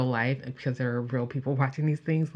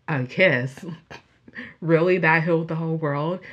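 louder, scoffing incredulous questions; cynical disbelief; 2 semitones higher, 5 dB louder than usual. Retold or imitated. Jaded viewer mocking a kiss that healed the world, loud scoff. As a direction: scoff at the idea like a jaded adult.

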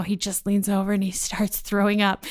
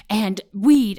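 ordinary talk, nothing marked

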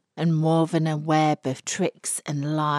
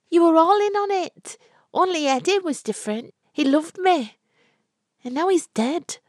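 put-on high, louder young woman cut to the bone; furious bride grieving Eddie; Florrie's angry grief; 13 semitones higher, 4 dB louder than usual. A narrator's reading. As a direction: throw the blame at them, then break on the dead lover.

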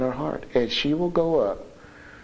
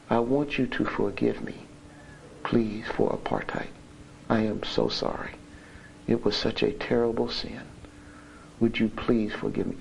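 soft sincere apology; 2 semitones lower, 5 dB quieter than usual. Retold or imitated. Hester's humble apology quoted.

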